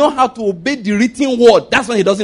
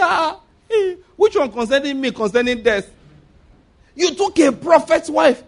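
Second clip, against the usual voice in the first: panicky king; 6 semitones higher than usual. Acted. Abimelech's panic.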